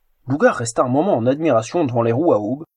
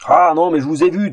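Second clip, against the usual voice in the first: louder, annoyed ogre voice; exasperated ogre thundering; 3 semitones higher, 5 dB louder than usual. Acted. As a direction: bellow it like a fed-up ogre. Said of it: "tonitru à l'ogre exaspéré".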